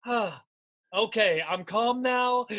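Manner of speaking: slow, drawn-out mock composure; suddenly settled down. Imitating the commentator after his outburst, settling down slowly. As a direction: let the temper drop into exaggerated calm. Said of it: "he just settles down".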